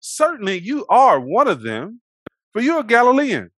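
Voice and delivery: loud, high accusing declaration; quoted accusation. Retold or imitated. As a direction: point him out, voicing the bystanders. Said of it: "looks at him and says".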